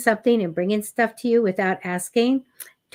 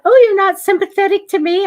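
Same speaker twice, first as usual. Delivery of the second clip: much higher and louder mock indignation; mock offended; 11 semitones higher, 9 dB louder, faster than usual. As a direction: play at being hurt, half-joking. Mock hurt at smiling client.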